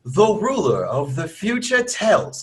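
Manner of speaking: reading in a put-on English accent; hammed-up British read; mock British accent. Shown as a demonstration. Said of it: "wait, wait, wait. I'm sorry".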